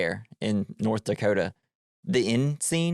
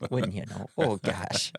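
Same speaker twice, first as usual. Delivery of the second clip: put-on Minnesota accent; 4 dB quieter, slower than usual. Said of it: "immediately wanna do the accent".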